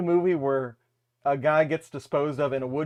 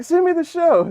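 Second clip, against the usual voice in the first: mimicking friend; 13 semitones higher, 8 dB louder than usual. Retold friend's demand.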